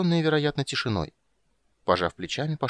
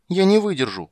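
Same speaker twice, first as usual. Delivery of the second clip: put-on high, loud whimper of a hungry child; a little girl whining with hunger; 9 semitones higher, 8 dB louder than usual. A narrator's reading. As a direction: whine that you can't bear it. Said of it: "захныкала она".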